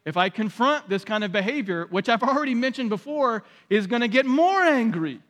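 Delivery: mild resigned sigh; a touch of defeated acceptance; passive resignation. Retold or imitated. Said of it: "the passive response, which says".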